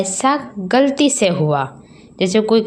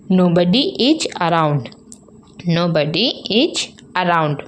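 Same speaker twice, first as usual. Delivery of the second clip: slow demo; much slower than usual. Shown as a demonstration. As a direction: say it slowly for learners. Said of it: "तो क्या कहते हैं". (धीरे-धीरे)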